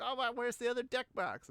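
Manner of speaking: high-pitched mock panic; frantic search, played up for laughs; retold panic. Co-host retelling missing Yu-Gi-Oh cards, mock panicked. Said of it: "like, panicked because there was".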